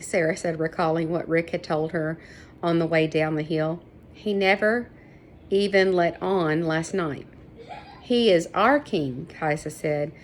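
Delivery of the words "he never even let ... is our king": amused disbelief. Acted.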